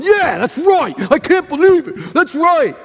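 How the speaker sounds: high, loud mock agreement; sarcastic Jesus. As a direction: egg the complainer on sarcastically. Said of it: "I think Jesus is going".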